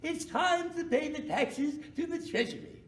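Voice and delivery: "taxes" and "Treasury" with dry crisp T's, slowly; no spit on the T's. Shown as a demonstration. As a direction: say "Time" and "Treasury" clean, no spray. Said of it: "I can say it without spitting".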